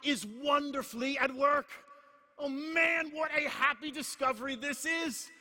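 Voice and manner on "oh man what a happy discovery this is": excited exclamation. Real, not acted. Preacher exults over discovery.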